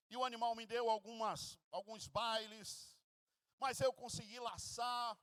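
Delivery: a son boasting of every effort, building up; proud Esau reporting. Acted. Esau boasting to his blind father of his hunt, eager and rising.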